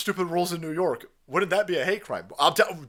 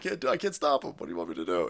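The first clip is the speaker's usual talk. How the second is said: lower, softer shrug; mock helpless cop; 3 semitones lower, 4 dB quieter, faster than usual. The cop excusing himself, lower mock voice. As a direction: play the useless cop. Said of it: "I was like".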